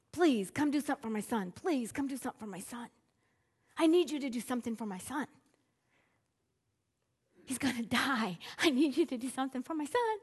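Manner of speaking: quick, pleading father's plea for his son; begging father. Retold or imitated. Father begs Jesus for his son, lightly voiced quick pleading. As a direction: rush the words like a desperate father begging. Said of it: "it says begging".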